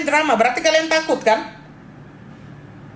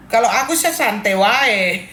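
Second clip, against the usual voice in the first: mock Good Day line said through a laugh; laughing imitation of Good Day; 3 semitones lower than usual. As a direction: quote him again while laughing. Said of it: "kalau Good Day yang ngomong". (meniru Good Day sambil tertawa)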